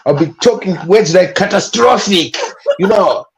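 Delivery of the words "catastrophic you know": mildly pompous big-word English; bombastic. Acted. Streetwise guest imitating his work English, bombastic. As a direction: show off the big word, half laughing. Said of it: "my English will be very bombastic".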